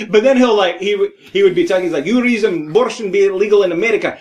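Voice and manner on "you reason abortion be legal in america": quick mock Russian accent; rapid-fire fake Russian; Robin Williams. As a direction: imitate a comic's Russian guy. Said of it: "pretending to be a Russian guy".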